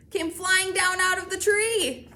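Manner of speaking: loud, high and stretched out; excited climax. A narrator's reading. Reader tells of caps tumbling down, excited. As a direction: exclaim the happy turn slowly. Caps all fall from the tree.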